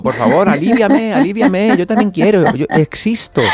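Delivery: high, begging little voice; pleading fascia. Acted. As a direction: beg for relief in a squeaky plea.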